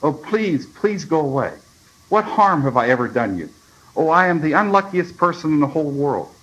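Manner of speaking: high, pleading distress; frightened wail, kept readerly; almost a scream. A narrator's reading. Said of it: "He said almost in a scream".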